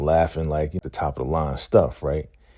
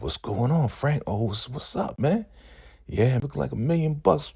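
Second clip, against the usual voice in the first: lightly voiced pitched-up street guy; a rapper's character; 10 semitones higher than usual. New character greets Frank at the party, high breezy voice. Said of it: "a rapper playing some guy".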